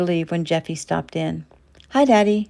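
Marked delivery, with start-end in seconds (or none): 1.9-2.5 bright, higher, louder greeting; cheerful. A narrator's reading. Daughter greeting her father cheerfully at the bedside. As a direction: greet her dad happily. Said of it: "she said cheerfully".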